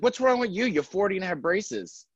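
mock indignant clapback; snappy comeback. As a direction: turn the question back on her. Snappy comeback to rude lady.

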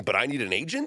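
"agent" rising as a quoted question; mock questioning. Host repeating the player's tweet to his guest, mock questioning. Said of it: "He's laughing at it".

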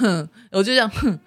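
a short dismissive hmph through the nose; scoffing snort. Shown as a demonstration. Showing the hosts how she scoffed at husband, short snort. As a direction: snort at his joke.

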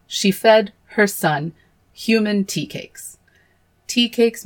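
horrified disbelief. Real, not acted. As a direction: say it like you can't believe it's true. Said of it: "Cue me fucking screaming".

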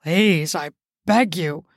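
begging. Acted. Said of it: "Charles called out".

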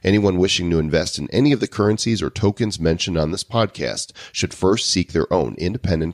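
brisk, punchy podcast disclaimer voice; disclaimer read. Acted. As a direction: read out the legal small print like an announcer. Reads the show's legal disclaimer.

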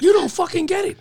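high, loud exasperation; retold exasperated warning. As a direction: act out a coworker losing patience. Cook warns the new guy.

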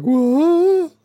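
high-pitched, exaggerated disbelief; hammed-up high yelp of surprise; mock shock. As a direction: squeal it like a stunned girlfriend. Retold shocked girlfriend.

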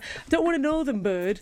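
put-on northern English accent. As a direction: do a northern lads' voice. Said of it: "That's my northern accent".

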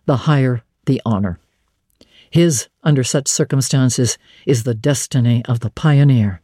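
lightly voiced solemn preacher, steady and quiet; St. John, quiet and deep. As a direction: speak like a grave young pastor making his case. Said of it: "with a quiet, deep voice".

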